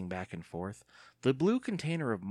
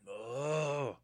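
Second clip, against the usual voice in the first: low cry of pain; 5 semitones higher, 3 dB quieter than usual. A narrator's reading. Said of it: "uttered a low cry".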